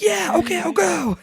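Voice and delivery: high squeaky rat reply. Retold or imitated. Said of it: "the rat's like".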